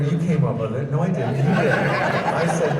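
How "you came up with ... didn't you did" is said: mock bickering. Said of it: "We were blaming each other".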